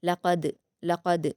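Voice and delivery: slow लक़द with a bouncing final qaf; लक़द with a clear bounce on क़; qalqala demo. Shown as a demonstration. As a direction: echo the qaf in लक़द slowly. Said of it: "क़लक़ला के साथ पढ़ा जाएगा".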